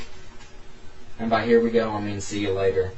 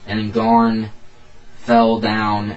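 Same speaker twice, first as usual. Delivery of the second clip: storyteller reading aloud, firmly stressed; story narration; 5 dB louder, slower than usual. A narrator's reading. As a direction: read it out as a dramatic tale. Reads own story aloud.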